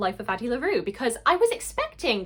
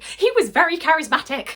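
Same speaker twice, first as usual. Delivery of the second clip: loud, high excuse-making; imitating Naveen; 8 semitones higher, 9 dB louder than usual. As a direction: blurt out the excuse, much louder and higher. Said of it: "he's just like".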